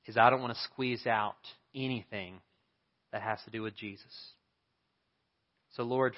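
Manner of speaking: pastor's prayer, hushed and sincere; earnest prayer. Acted. Pastor prays over the congregation, earnest and hushed. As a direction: pray aloud to God for the church.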